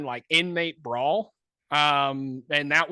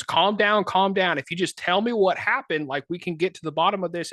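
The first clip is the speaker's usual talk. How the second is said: officer calming; 3 semitones higher than usual. Retold or imitated. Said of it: "he goes".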